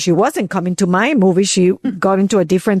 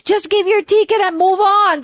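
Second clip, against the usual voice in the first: mild mock annoyance; 9 semitones higher than usual. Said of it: "gets really upset and say".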